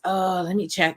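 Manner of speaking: light, rough Scottish imitation; bastardized Scottish accent. Security guard answering the visitor, bastardized Scottish accent. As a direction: put a Scottish lilt on it. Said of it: "the bastardized Scottish accent".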